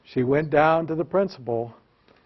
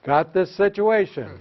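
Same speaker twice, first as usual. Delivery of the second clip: rehearsed phrase; 4 semitones higher than usual. Shown as a demonstration. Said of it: "rehearse it with me".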